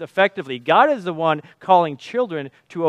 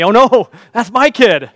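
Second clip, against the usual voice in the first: a laughing cry of mock horror, slightly louder; dawning horror, laughing; 3 semitones higher, 6 dB louder than usual. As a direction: realize it's your own kid and laugh in dismay. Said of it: "the horror slowly started to dawn".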